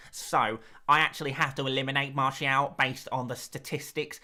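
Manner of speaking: a hint of a mock stats presenter; lightly put-on statistics voice. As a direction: pretend to be a serious data analyst. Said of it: "Voice is unbearable".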